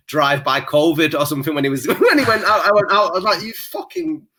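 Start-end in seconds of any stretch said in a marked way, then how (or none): 1.9-3.4 laughing. Real, not acted. Laughing while retelling Trump story. 3.4-4.3 under-breath curse. Retold or imitated. Muttered insult at Trump on TV.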